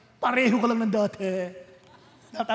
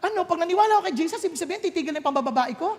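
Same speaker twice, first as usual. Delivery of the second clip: incredulous mock question; 4 semitones higher, faster than usual.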